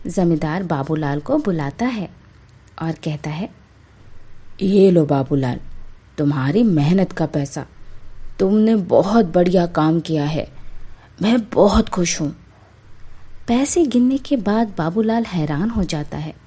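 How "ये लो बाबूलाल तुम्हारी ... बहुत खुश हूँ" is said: a lightly deeper, satisfied landlord voice; pleased zamindar. Acted. Zamindar paying Babulal for his work, lightly deeper pleased voice. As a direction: hand over the money like a pleased landlord.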